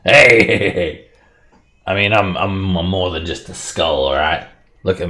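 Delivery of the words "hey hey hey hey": alarmed shout. Acted. Talking skull protests.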